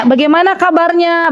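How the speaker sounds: pleasant, caring question; good intonation. Shown as a demonstration. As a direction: model a kindly "how are you". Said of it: "Bagus kan?".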